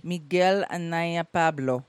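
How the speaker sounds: slow Spanish accent on the name. Shown as a demonstration. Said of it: "in your best Spanish accent".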